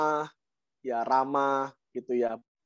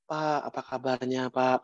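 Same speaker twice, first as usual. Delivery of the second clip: mildly subdued phlegmatic greeting; low-key phlegmatic; 4 dB quieter than usual. Acted. Phlegmatic mentor greets a choleric partner, low-key phlegmatic. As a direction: lightly imitate a mild, unassertive mentor. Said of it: "bahasanya di bawah, orang-orang plekmatis".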